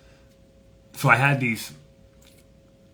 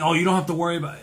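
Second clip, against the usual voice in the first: high, louder imitation of a Jamaican driver; Jamaican man; 8 semitones higher, 5 dB louder, faster than usual. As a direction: reassure in a put-on Jamaican voice. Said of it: "Jamaican guy".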